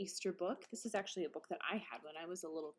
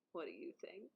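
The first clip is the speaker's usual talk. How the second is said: hushed question; 8 dB quieter than usual. Real, not acted. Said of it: "reader asks listeners softly".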